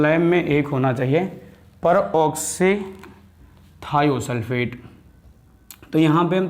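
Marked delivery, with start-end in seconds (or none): 1.8-4.8 peroxythiosulfate said very slowly, syllable by syllable; drawn-out pronunciation. Shown as a demonstration. Chemistry teacher to students, slowly spelling out peroxythiosulfate. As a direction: stretch every syllable of peroxythiosulfate. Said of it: "मैंने बोला peroxythiosulfate से".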